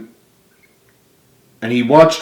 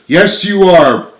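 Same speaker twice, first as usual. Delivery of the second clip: slow, raised firm protest; 7 semitones higher, 7 dB louder, slower than usual. Acted. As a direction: insist against him. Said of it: "protested Frank".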